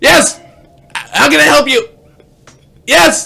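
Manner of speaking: very loud, high, shrill screaming. Imitating a parent answering a phone call: imitating dad yelling on phone. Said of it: "you have to scream at them".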